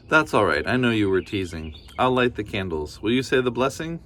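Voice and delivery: a hint of a cheerful granny; kindly grandmother. Baba Brena thanking the bear, lightly voiced granny.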